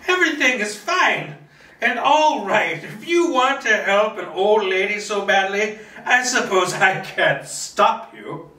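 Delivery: put-on high old lady voice, laughing it off. Old lady laughs off his concern in high voice. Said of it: "Martha waves her hands, laughing off his comment".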